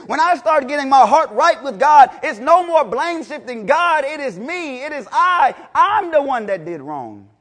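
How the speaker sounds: ordinary talk, nothing marked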